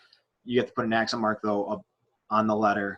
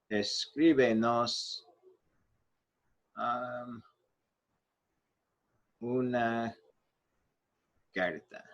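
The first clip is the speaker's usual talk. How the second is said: slow dictation; 6 dB quieter, much slower than usual. Shown as a demonstration. Dictating slowly while writing it out.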